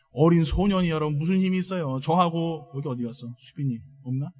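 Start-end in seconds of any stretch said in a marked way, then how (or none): none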